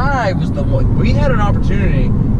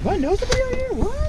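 mock surprise; 4 dB quieter than usual. Acting surprise at meeting someone.

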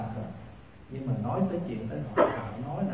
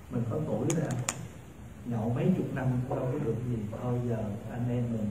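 low, soft, casual persuasion; tactful refusal; 4 semitones lower, 6 dB quieter, faster than usual. Acted. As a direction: gently talk a friend round, voice lowered. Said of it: "Nói khéo đó". (từ chối khéo, giọng nhỏ nhẹ)

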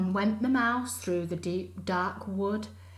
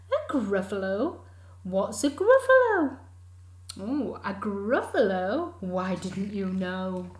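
a startled yelp of a question; surprised fox; 6 dB louder than usual. Acted. Fox startled by the name Gruffalo, squealing. Fox asks, mouse replies.

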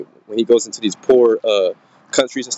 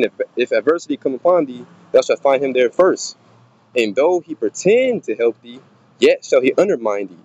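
scripture reading. Acted. Reads scripture aloud.

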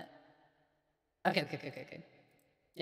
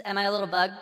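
pitched-up chipmunk voice; 5 dB louder, faster than usual. Real, not acted. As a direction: sound like a tiny bug. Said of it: "I sound like a little chipmunk thing".

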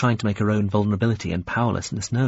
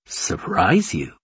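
puzzled echo; 3 semitones lower, slower than usual. Acted. Visitor puzzled by request.

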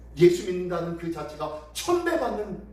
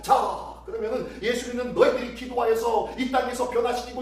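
scornful jeer building to forceful questions; mocking challenge; 3 semitones higher than usual. The world sneers at praying believers, mocking challenge. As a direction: goad believers as a scoffer would. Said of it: "라고 하며 조롱하고 있어요".

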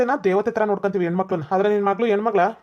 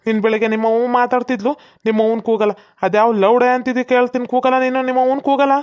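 acted angry scolding, raised voice; angry threat; 4 dB louder than usual. Father confronting the man who teased his daughter, angry threat. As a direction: threaten him and demand his mother.

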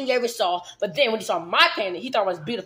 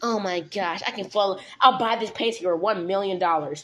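put-on sassy goth girl; 4 semitones lower than usual. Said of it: "free talk like a dumb, sassy goth girl".

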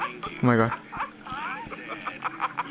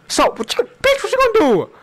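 taunting; 4 semitones higher than usual. Real, not acted. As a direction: squeak out a cocky challenge. Taunting game enemy.

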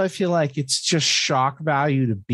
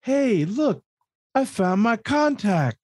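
much higher, goofy oafish cartoon duck; dumb duck voice; 8 semitones higher than usual. Retelling a Duckman scene to a friend, high goofy dopey voice. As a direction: play the big stupid son as a dim cartoon duck. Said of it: "stupid duck is like".

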